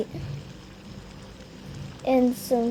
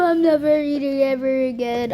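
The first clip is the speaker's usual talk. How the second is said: tearful; 4 dB louder than usual. Acted. Kid after spicy food.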